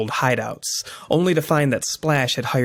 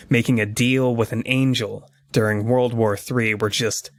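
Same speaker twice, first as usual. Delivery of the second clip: comic narration. A narrator's reading. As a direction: introduce the issue like a storyteller. Reads issue intro as narrator.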